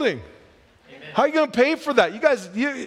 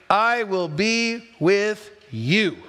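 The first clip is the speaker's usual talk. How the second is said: slow reassuring promise; much slower than usual. Retold or imitated.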